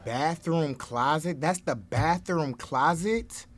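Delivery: slow, drawn-out disbelief; incredulous questioning. Real, not acted. Questioning the bathroom closet in a mega mansion, incredulous. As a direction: stretch the words out in disbelief.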